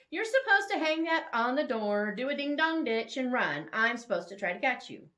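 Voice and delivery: loud, high, eager rush of rules; Bethany eagerly explaining the game, loud and high; excited explaining. Acted. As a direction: spill out the game rules with glee. Bethany explaining the ding-dong game.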